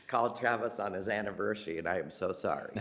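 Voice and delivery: sheepish apology through laughter; embarrassed giggly sorry; laughing apology. Real, not acted.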